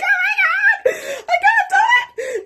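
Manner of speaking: high, loud laughing-crying wail; panicked cry. Retold or imitated. Panicking over the marathon, a high laughing-crying wail. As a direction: wail it, half laughing, half sobbing. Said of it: "I was like".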